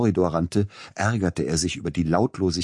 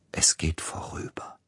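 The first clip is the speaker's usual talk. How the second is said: whisper; 5 dB quieter than usual. Acted. Inner thought, alone in dark.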